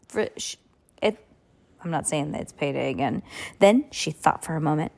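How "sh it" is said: ordinary delivery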